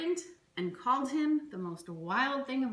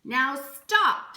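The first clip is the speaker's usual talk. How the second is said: loud, firm command; stern order; 5 semitones higher, 10 dB louder than usual. Acted. Max ends the rumpus with a loud stern order. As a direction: shut the party down like a king. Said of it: "said Max".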